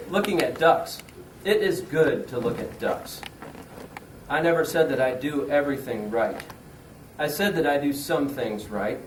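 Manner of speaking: measured, deliberate poem delivery; mock-serious verse read to a room; poetry reading. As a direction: recite it earnestly, pausing after each line. Reads second poem aloud.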